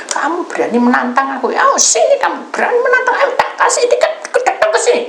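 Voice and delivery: high, loud shouted dare; angry challenge. Retold or imitated. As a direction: dare her to come over, yelling. Acts caller's challenge to fight. (meniru tantangan sambil membentak)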